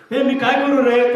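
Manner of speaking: equation asking a question. Acted. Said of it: "मी याला प्रश्न विचार, हा मला उत्तर देईल".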